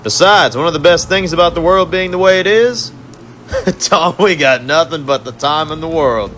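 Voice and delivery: high, taunting villain voice, savoring the catch; gloating villain conductor. Acted. Conductor gloats over his handcuffed captives, high and mocking. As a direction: purr over the trapped prisoners like a smug torturer.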